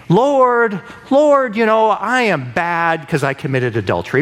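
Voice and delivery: mock a sinner pleading to dodge punishment; whiny self-pitying prayer. Sinner begging God to avoid consequences, whiny plea. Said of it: "David didn't say".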